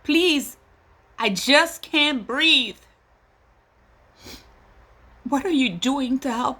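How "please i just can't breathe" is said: higher, slow, drawn out; anguished plea. Real, not acted. Mother echoes the dying man's plea, anguished and slow. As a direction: beg for air. Pleading, echoing George Floyd.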